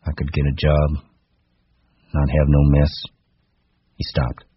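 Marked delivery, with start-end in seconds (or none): 0.1-2.9 monotonous, emphasis-free recital; wooden monotone. Acted. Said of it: "His voice was monotonous".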